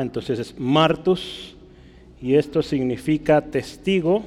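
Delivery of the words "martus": "martus" with the stress on the A, MAR-tus; acento en la A. Shown as a demonstration. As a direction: say "martus" slowly, leaning on the first syllable. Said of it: "Hay un acento en la A". ("martus" con el acento marcado en la A)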